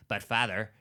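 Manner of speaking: lightly imitated dubbed movie voice; dubbed American actor. Host mimicking the dubbed voice in Hercules in New York, lightly imitated. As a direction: do a mild mock film-dub voice. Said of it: "this is literally what he sounds like".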